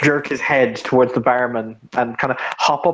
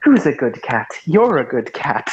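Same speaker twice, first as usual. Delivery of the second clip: put-on baby talk to cat. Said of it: "your voice changes to".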